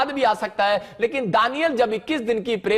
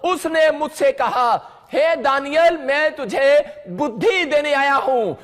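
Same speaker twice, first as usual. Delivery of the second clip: slow, raised-pitch reading aloud; emphatic scripture reading; 3 semitones higher, slower than usual. Real, not acted. Preacher reading Daniel's verse to the congregation, emphatic reading aloud. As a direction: read the verse out slowly and emphatically. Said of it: "हम जोर से पढ़ेंगे".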